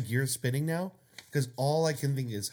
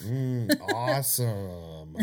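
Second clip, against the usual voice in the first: sarcastic; much slower than usual. Pretend. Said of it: "Just sarcastic porn".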